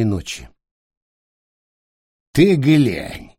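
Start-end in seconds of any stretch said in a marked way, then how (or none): 2.3-3.3 creaky, rasping call. A narrator's reading. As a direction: call out in a scratchy old voice. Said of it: "раздался невдалеке скрипучий голос".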